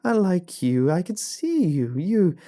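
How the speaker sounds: frantic high, loud shriek of obsession; unhinged, high-pitched screaming rant; all-caps shouting. A narrator's reading. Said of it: "in all caps was the following".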